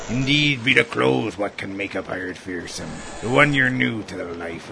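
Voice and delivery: salty pirate bosun; old sea dog explaining. Acted. Bosun speaks in pirate talk.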